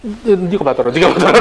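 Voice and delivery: passing it on with a chuckle; laughing brush-off. Retold or imitated. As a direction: toss it back, laughing. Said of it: "김 목사 그러면".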